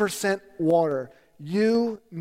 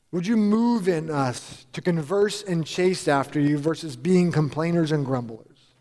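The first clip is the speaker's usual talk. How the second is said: closing prayer; 3 semitones lower than usual. Real, not acted. Pastor closes the sermon praying for the church, reverent prayer. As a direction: pray it over the congregation.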